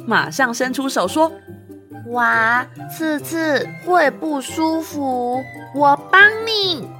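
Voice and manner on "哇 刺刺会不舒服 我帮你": eager offer to help. Acted. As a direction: jump in to help.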